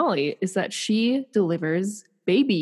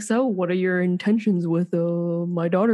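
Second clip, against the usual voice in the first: stern dad asking intentions; a hint of a protective father; overprotective dad; 2 semitones lower than usual. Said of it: "And be like".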